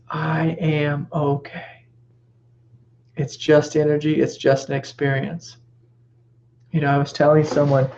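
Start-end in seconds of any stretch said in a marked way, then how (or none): 0.1-1.9 calm reassurance. Shown as a demonstration. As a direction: tell yourself gently and slowly.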